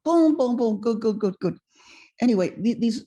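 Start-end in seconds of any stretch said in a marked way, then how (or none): 0.1-1.6 put-on French-accented approval, falling from high; imitated French mentor's quick praise. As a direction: applaud as an excited old Frenchman. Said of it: "he said to me in a French accent".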